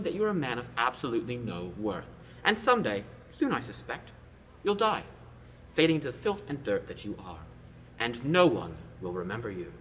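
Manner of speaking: loud cold threat; menacing threat. Acted. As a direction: build the menace word by word. Prince threatens the bully.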